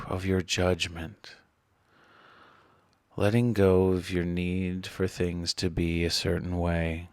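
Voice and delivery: measured meditation voice with long pauses; guided meditation. Acted. Meditation guide helping listeners release resistance, calm and measured. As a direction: guide them inward calmly, leaving space between phrases.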